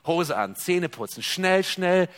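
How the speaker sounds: lauter, gehetzt angetrieben; schnell, schnell lauter hinausrufen. Retold or imitated. Hurried believer, same situation. (lauter und gehetzt)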